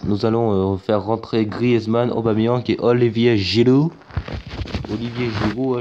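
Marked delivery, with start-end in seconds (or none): 2.1-5.8 put-on names "Olivier Giroud" said with an English accent, "Giroud" like "Jiloo". Announcing his lineup in a mock English accent. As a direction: say "Giroud" the English way, "Jee-roo". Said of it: "je fais l'accent anglais".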